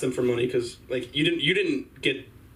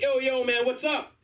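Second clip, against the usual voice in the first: high, chummy mock panhandler; put-on street-talk voice, pitched up; street hustler greeting; 10 semitones higher than usual. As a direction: greet a stranger like an old pal. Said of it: "Anyone can talk like this".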